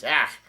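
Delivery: short mock "ack"; imitated yelp. Retelling Chopper grabbed by a vine, mild mock yelp. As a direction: mimic a startled cry at half strength. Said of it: "yells out".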